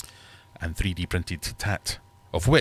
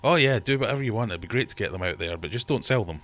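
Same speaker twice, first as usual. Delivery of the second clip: eager designer; 3 semitones higher, faster than usual. Retold or imitated. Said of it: "So is that a yes?".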